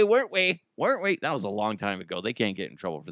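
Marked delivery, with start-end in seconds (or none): 0.0-1.2 teasing, pitched-up sing-song needling; mock accusing. Host ribbing his old grocery store bosses, mock accusing. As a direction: needle them, voice lifting higher.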